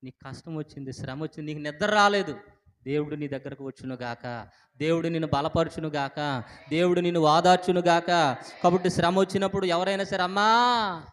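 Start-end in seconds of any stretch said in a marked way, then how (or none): 4.8-11.0 preacher's blessing, building louder; fervent preaching. Real, not acted. Preacher blessing the congregation in their hardship, fervent.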